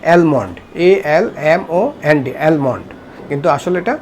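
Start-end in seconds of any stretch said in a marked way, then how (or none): 0.1-0.5 অ্যালমন্ড as "EL-mond", l sounded; common mispronunciation. Shown as a demonstration. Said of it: "কী উচ্চারণ করে থাকি". 2.4-2.9 অ্যালমন্ড as "EL-mond", l sounded; common mispronunciation. Shown as a demonstration. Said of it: "ভুল উচ্চারণ".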